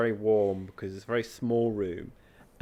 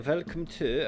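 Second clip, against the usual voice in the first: higher-pitched mock German accent; weird German accent; 6 semitones higher, slower than usual. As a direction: put on an odd German accent. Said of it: "weird German accent".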